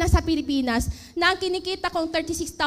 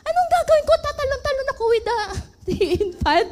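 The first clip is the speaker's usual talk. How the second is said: laughing retort; 9 semitones higher, faster than usual. Retold or imitated.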